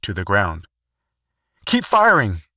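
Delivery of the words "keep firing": high, loud battlefield shout; yelling. Acted. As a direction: shout over the gunfire. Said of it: "Matthews yelled at Taylor".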